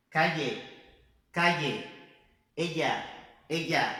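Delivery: Calle and Ella with a half lh sound for ll; Calle, Ella: ll said like a half Portuguese lh; Spain pronunciation. Shown as a demonstration. Teacher models Calle and Ella, Spain-style ll. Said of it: "pronúncia da Espanha".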